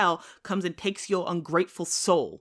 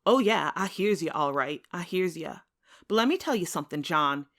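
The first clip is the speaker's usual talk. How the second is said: louder, building bitter defiance; defiant reply; 5 dB louder than usual. Acted. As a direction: throw his broken promise back at him. Wounded Tom defies John.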